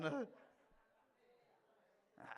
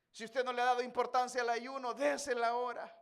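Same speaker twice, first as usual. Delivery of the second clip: usual speaking voice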